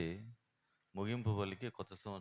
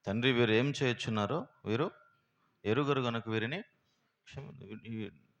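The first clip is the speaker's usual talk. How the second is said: Jesus on the cross; 3 semitones higher, 6 dB louder than usual. Acted. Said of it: "సిలువలో ఏం పలికినాడు".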